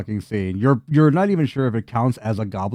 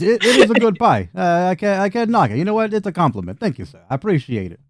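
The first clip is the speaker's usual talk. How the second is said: high, chuffed goblin voice; flattered goblin; 7 semitones higher than usual. Acted. Goblin thanking the party for the compliment, high and chuffed. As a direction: accept the praise, pleased and higher.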